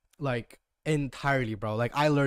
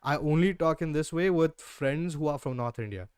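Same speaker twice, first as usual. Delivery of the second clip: North Indian Hindi accent. Shown as a demonstration. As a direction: demonstrate a Hindi-accented English. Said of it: "I can talk like this".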